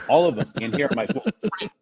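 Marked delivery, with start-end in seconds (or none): 1.1-1.7 sarcastic. Retold or imitated. Sarcastic reaction to making all mistakes.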